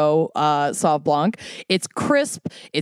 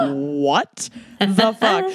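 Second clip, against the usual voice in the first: shocked; much slower than usual. Retold or imitated. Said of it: "My mom is like".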